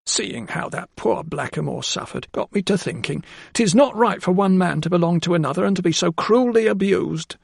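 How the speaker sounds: high, earnest woman's voice; a simple maid voicing her conscience; earnest housekeeper. A narrator's reading.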